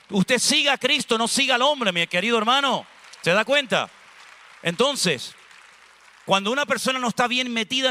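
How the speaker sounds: preaching exhortation. Acted. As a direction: drive the point home from the pulpit.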